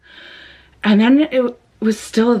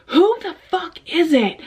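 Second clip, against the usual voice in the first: high, frightened who-is-it; scared demand; 8 semitones higher than usual. Retold or imitated. To the late-night knocker, a high, frightened demand. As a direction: demand a name through the door, rattled.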